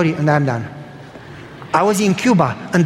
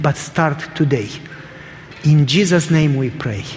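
prayer; 2 semitones lower than usual. Real, not acted. Preacher leading the congregation to God, measured prayer. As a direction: pray aloud unhurriedly, easing down to the amen.

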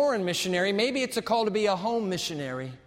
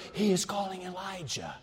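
whispered; 5 dB quieter than usual. A narrator's reading. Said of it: "they whisper".

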